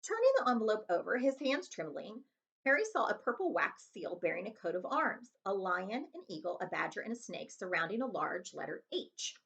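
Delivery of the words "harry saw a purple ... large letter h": ordinary delivery, nothing marked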